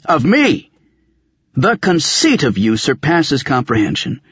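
high-pitched outrage building in force; indignant tirade. Acted. Old man berating Raven for demanding explanations, rising indignation. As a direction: build from affronted to incredulous, pitch climbing.

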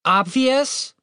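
high, incredulous one-word retort; incredulous shout. A narrator's reading. Woman challenging her companion's claim, incredulous mild shout. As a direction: throw it back high as a question. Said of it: "Catherine shouted back at him".

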